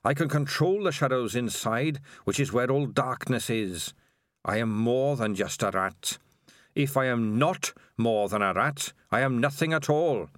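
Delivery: lightly voiced sinister rat king; measured, understated villain voice. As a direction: speak as a many-headed rat king laying out its power. Spider the Rat King speaks.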